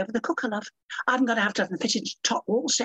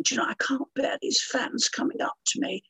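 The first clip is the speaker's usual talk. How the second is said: mocking whine; 5 semitones higher than usual. Mocking moaning celebrities.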